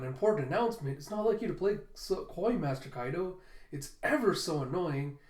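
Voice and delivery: bratty tease. Shown as a demonstration. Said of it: "that's Ulti's going".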